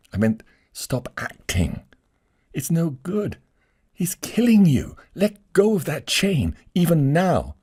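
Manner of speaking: high, rising to loud urgency; urgent lady. Acted. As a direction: plead before it's too late. Lady urges him urgently.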